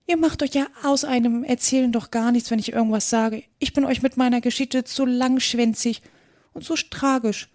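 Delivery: small creature complaining in a high voice; put-upon little mouse. Acted.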